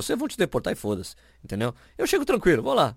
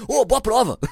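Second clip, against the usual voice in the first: cheery officer; 10 semitones higher, 4 dB louder than usual. Retold or imitated. Customs officer cheering him on.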